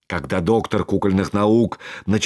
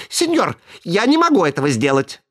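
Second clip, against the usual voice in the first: protesting puppet; 6 semitones higher, faster than usual. A narrator's reading. Buratino protests.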